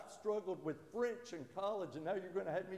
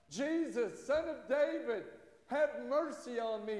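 raised, higher pleading call for mercy; blind man crying out; 6 semitones higher, 4 dB louder than usual. Retold or imitated. Preacher voicing the blind beggar calling to Jesus, loud and high. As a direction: call out over the crowd, begging. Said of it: "he cried out".

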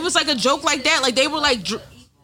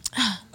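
mock gasp; 7 dB quieter than usual. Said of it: "And she's like".

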